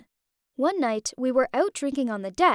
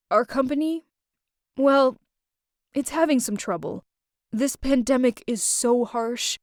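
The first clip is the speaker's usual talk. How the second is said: unhappy. Acted. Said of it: "He didn't sound happy at all".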